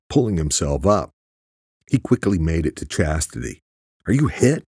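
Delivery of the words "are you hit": high-pitched, moderately raised voice; screamed question. A narrator's reading. Luke reaching Chastity on the ladder, worried yell. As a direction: call out in alarm, pitched high. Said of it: "he screamed".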